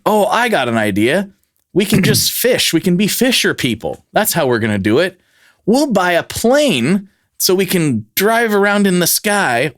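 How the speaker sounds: hammed-up bright idea; mock eager planner. Cult member pitching a silly plan, mock eager.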